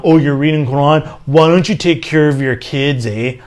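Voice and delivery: light mock Canadian accent as Shaitan; a hint of a Canadian accent, eh tagged on. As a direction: tease like a Canadian tempter, ending on eh. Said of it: "Shaitan with a Canadian accent".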